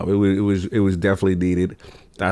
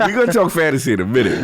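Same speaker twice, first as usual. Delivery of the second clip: laughing; 5 semitones higher, faster than usual. Real, not acted. Laughing about fantasy draft.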